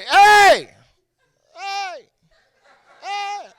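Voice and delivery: high shout echoing away to almost nothing; fading echo. Acted. Comic calls into a huge cavern, fading echo. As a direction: call out, then repeat it fainter like an echo. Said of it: "First pussy echo".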